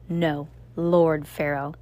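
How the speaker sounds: slow, grand self-crowning; grandiose. Acted. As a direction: savour the new title slowly. Alchemist demands new title.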